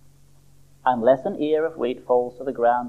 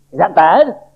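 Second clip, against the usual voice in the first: high, loud little-seed voice calling the doctor; a small worried seed bursting in; Sammy the seed voice; 4 semitones higher, 5 dB louder than usual. Acted. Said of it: "said Sammy".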